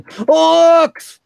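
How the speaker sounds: high, loud alarmed yell of "Orcs"; frantic lookout cry. Acted. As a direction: shout the warning across the camp. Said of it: "he's just yelling out loud".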